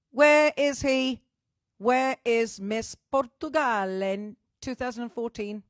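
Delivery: loud, drawn-out demand; calling out. Real, not acted. Host looking for a late friend, loudly calling out. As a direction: holler for someone who is missing.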